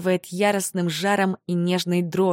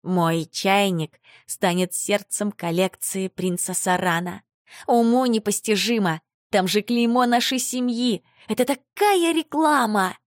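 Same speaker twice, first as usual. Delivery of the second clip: delighted; 3 semitones higher than usual. Acted. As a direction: gush with growing delight. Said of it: "восторженно шепчет".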